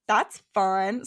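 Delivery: excited mock-Australian exclamation; lightly hammed-up Australian lilt; playful Australian accent. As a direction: slip into an Australian accent, drawn out. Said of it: "anytime anything has anything to do with Australia".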